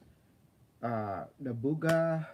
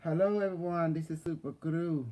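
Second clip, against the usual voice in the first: higher, louder hype intro; excited host; 5 semitones higher, 4 dB louder than usual. Real, not acted. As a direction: announce yourself like a showman. Restart of the channel intro.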